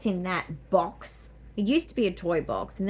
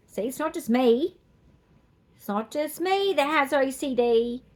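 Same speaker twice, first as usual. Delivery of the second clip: emphatic; 6 semitones higher, 6 dB louder than usual. Real, not acted. Teasing emphatic claim.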